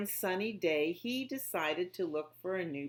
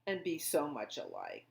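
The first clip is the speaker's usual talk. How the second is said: wondering; 6 semitones higher, faster than usual. A narrator's reading. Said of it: "wondered Pip".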